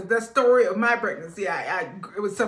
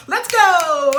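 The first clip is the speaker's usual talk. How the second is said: let's go; 9 semitones higher, 11 dB louder than usual. Retold or imitated. Impatient partner urging speed.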